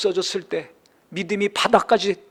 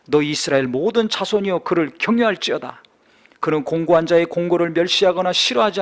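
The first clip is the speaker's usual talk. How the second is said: solemn scripture reading. Acted. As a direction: proclaim the psalm to the congregation. Reads psalm aloud.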